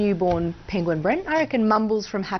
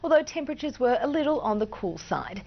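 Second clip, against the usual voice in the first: even, measured forecast delivery; walk viewers through the weather; weather forecast read. Acted. Presenter reading the state forecast, weather read.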